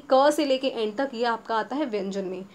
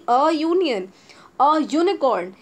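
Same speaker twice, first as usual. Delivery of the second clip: slow, louder a union, a unicorn; slow model reading; 2 semitones higher, 4 dB louder, much slower than usual. Shown as a demonstration. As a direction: read each example slowly for class. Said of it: "teacher modelling examples".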